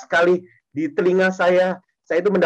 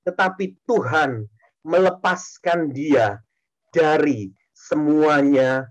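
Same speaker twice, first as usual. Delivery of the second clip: scripture reading; 2 semitones lower, slower than usual. Shown as a demonstration. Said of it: "Mazmur tiga puluh empat ayat dua puluh dikatakan".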